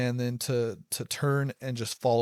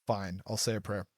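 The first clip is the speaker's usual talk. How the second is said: grudging, softer; 4 semitones lower, 5 dB quieter than usual. Retold or imitated. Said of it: "on the verge of blowing up 'cause I was just frustrated".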